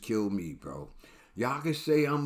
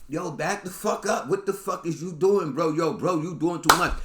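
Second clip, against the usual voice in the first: mock angry push-back; 5 semitones higher than usual. Acting out pushing the man away.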